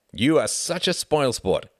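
slow, high-pitched playful pout; mock pout. A narrator's reading. Frederick teases Reginald for refusing to guess, mock pouting. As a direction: pretend to sulk, drawing it out. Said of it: "pretending to pout".

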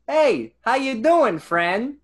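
put-on high, slow hammy Brooklyn accent. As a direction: play a bad Brooklyn tough guy. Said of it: "like he puts on an accent".

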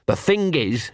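lightly voiced scruffy street dog, chummy; a small mongrel wheedling a friend; Gaspode the dog. Scruffy dog to hidden wolf, lightly voiced.

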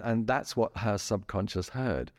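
ordinary talk, nothing marked

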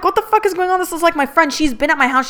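high-pitched panicked outburst; panicked disbelief. Retold or imitated. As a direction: voice shooting up in alarm. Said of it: "I got anxiety now".

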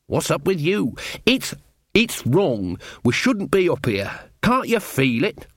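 rattled, pleading with the others to notice; uneasy villager. Acted. Jason urging friends to leave the hill, uneasy and agitated.

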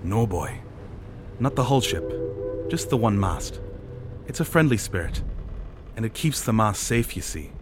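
lightly voiced sailor, patient; reassuring old-hand sailor. Sailor reassuring Thad about the spirit, patient. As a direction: set the boy straight in short phrases.

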